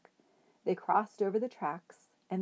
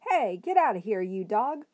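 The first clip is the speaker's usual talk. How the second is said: loud angry shout at a dog; Ernest yelling; 3 semitones higher, 7 dB louder than usual. A narrator's reading. Madman chasing off the dog, loud yell. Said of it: "It was Ernest".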